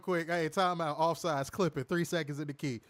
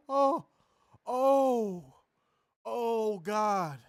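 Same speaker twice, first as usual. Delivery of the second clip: high, loud oh's through laughter; real breathless laughter; laughing gasps; 6 semitones higher, 3 dB louder, much slower than usual. Real, not acted. Laughing fit aftermath.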